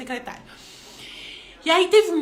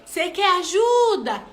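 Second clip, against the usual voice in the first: mother's offer; 5 semitones higher, 5 dB louder, slower than usual. Retold or imitated. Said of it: "eu perguntei".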